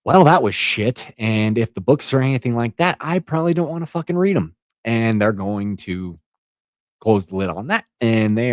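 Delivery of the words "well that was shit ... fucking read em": lightly acted dismissive viewer, rising in pitch; a hint of a disgusted newcomer; imagined put-off viewer. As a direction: voice a viewer writing it off. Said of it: "They're gonna say".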